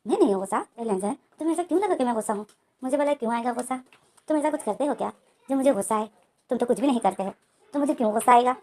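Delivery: mildly sarcastic, sweet on top and annoyed beneath; fake-smiling denial. Wing to Lenjan, brushing him off with fake sweetness. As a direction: deny being angry through a forced smile. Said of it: "smile करता है fake से".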